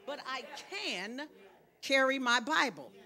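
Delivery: "can" held long before a pause; emphatic, stretched "can"; stress on CAN. Shown as a demonstration. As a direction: draw out "can", then finish the line. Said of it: "put emphasis on the word can".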